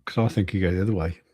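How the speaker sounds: muffled behind a hand; hand over mouth. Real, not acted. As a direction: talk with a hand covering your mouth. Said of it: "Take, take your hand away from your mouth".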